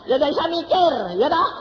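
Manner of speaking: high, loud drowsy bewilderment; high loud groggy confusion; sleepy confused self. Retold or imitated. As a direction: play yourself half-asleep and lost, high and loud.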